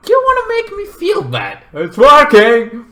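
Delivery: high, strained put-on wail; mock upset. Child guilt-tripped by crying mother, high mock upset.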